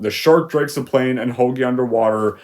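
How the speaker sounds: ordinary talk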